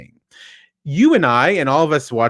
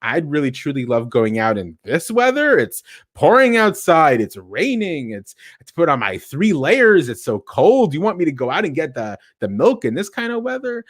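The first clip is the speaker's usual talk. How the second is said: sarcastic. Shown as a demonstration. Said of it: "Or it could be sarcastic".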